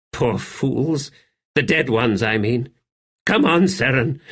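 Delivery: a hint of a bitter, tired man; lightly voiced gallows humour; weary Buruk voice. Buruk urging Seren to the tavern, lightly voiced weariness.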